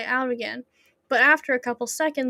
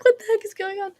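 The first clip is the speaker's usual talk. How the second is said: surprised; 8 semitones higher, much faster than usual. Retold or imitated. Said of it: "I was like".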